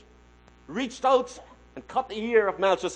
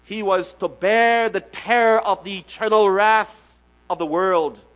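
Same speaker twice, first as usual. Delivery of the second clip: emphatic quote; 7 dB louder than usual. Acted. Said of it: "Doctor Hendrickson says this".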